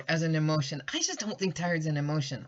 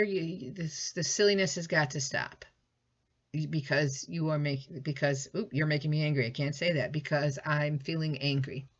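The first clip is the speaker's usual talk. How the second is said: calm but firm. Shown as a demonstration. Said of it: "Is it okay for me to say calmly".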